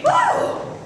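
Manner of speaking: high, loud startled whoa; surprised shout. Acted. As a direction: jump out of your skin. Sudden shock.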